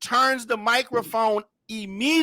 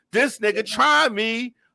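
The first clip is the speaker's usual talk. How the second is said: plain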